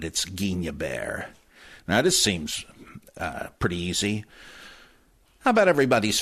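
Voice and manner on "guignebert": "Guignebert" as geen-yuh-BAIR, softly; ny sound in the middle of "Guignebert"; French pronunciation. Shown as a demonstration. Advising readers on the name, "Guignebert" as geen-yuh-BAIR. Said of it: "if you talk about it".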